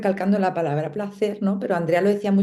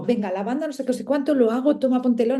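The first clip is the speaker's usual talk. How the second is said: higher, hurried, mocking her own rushing; mock rushed chore; 5 semitones higher, faster than usual. Mocking her old rushed self with the oils, in a hurried voice. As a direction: toss it off like a quick chore, pitched up. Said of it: "No voy ahí como".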